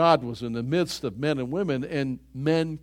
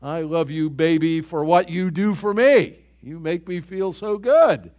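mock crooning lover, louder; hamming up a selfish sweet-talker; imitating a self-serving lover, slightly higher and louder; 3 semitones higher, 8 dB louder than usual. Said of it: "Often it's extremely selfish".

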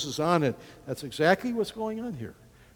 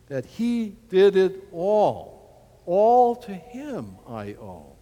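reverent; 2 semitones higher, 4 dB louder, slower than usual. Real, not acted. Hymn-like slow line.

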